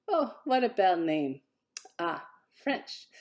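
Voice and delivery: put-on light French accent, lilting; hotel caller charmed, lightly French accent. French hotel caller complimenting the name, light French accent. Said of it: "The accent surprised her".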